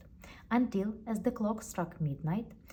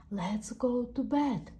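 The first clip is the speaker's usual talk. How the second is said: teeth chattering; 5 semitones higher, slower than usual. Acted. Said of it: "Jen chattered".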